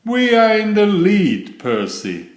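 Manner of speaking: driver's excited shout, high and loud. A narrator's reading. Driver shouting the lead to Percy, high excited call. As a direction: call it out over the engine noise. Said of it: "Percy's driver shouted".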